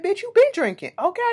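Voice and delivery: loud, very high-pitched retort; mocking call-out. Candy calling out Kim's drinking, mocking. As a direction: imitate a friend's squealed accusation.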